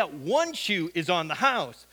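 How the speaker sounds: slow, drawn-out "one" before "shoe"; stress on one. Retold or imitated. Homeless guy corrects Nathan, stressing "one". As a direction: lean hard on "one", taking your time. Scammer springs the catch on "one.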